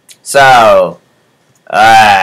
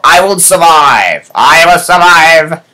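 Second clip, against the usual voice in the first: mock defiance; 4 semitones higher than usual. Defiant chant.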